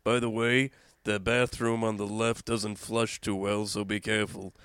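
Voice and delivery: slow sleazy Skippy voice; sleazy show-host character. Acted. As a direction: lean into a lecherous host. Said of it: "time for the Skippy Green Show".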